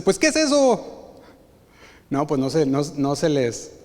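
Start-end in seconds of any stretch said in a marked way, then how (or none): 0.0-1.2 high, baffled question from the crew; confused crew. Retold or imitated. Crew baffled by the captain's order, high confused question. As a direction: sound totally lost. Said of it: "Y todos dicen".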